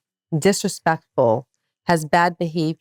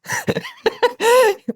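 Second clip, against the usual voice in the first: high burst of disbelieving laughter; high shocked laugh. Retold or imitated. Mother laughing at friend's shrug, high disbelieving laugh.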